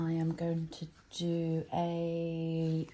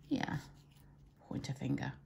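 confirming; 10 dB quieter than usual. Real, not acted. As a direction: answer yourself, quietly sure. Confirms answer after asking.

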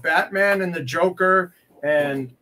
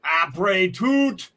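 very slow, drawn-out hammy French; put-on French patter, much slower; mock French; much slower than usual. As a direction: draw out each French word theatrically. Puts on mangled playful French.

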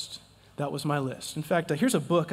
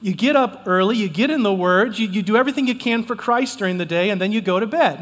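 louder, driving preacher cadence; firm, loud sermon delivery; preaching hard; 4 dB louder than usual. Real, not acted. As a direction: press the point on the crowd. Preaching point with rising force.

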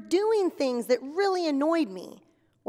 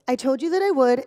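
louder, irritated insistence into the phone; annoyed, louder; 7 dB louder, faster than usual. Acted. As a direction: press it home, losing patience. Annoyed phone call, repeated line.

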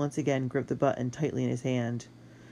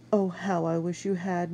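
higher, regretful woman's voice; wistful murmur; 5 semitones higher than usual. A narrator's reading. Sister wishing the boy's plan had worked, wistful murmur. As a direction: murmur it with longing. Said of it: "Mistress Hewson murmured".

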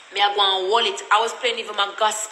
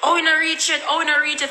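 raised, sing-song mock of the doubters; mocking comment voice; 5 semitones higher, 3 dB louder than usual. Mimicking the doubting commenters, higher and louder mock tone. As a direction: poke fun at them, pitching it up high and loud. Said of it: "the people them a say".

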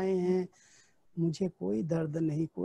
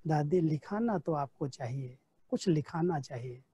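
gentle, affectionate coaxing, slightly lower; lovingly; 4 semitones lower than usual. Retold or imitated. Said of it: "बड़े प्यार से कहती हैं".

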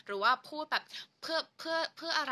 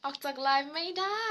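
only slightly raised, with a gentle rise; milder playful read; 4 semitones higher, 4 dB louder than usual. Pretend. Repeating the fan's comment to viewers, mildly playful. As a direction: say "ออกจากไลฟ์ไม่ได้" lightly, lifting the end a little.

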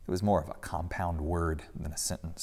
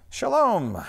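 good-natured greeting; 14 semitones higher, 6 dB louder than usual. A narrator's reading. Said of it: "Jesus greeted good-naturedly".

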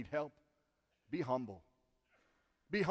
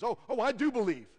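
glib churchy answer; 9 semitones higher, 9 dB louder than usual. Pretend. Mock Sunday school answer.

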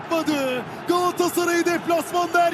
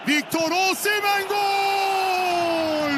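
screaming football commentator; 3 semitones higher, much slower than usual. Real, not acted. Goal call, commentator.

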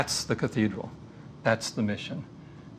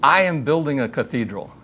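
proud smile; 3 dB louder than usual. Retold or imitated. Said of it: "looks up with a big smile and he says".

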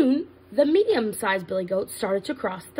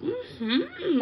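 dreamy hungry hum; 9 semitones higher than usual. Acted. Troll dreaming about eating brother.

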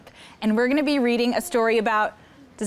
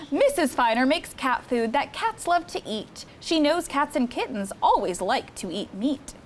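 put-on lively read-aloud for children; storybook reading; 2 semitones higher than usual. Counselor reading Cat in the Hat book to campers, lively storytime. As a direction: read the rhymes to the kids with bounce.

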